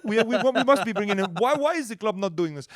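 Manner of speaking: mock-indignant French-Canadian boss; Mario impression. Comedian voicing the French-Canadian owner's rant. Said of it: "I've been impersonating the new owner".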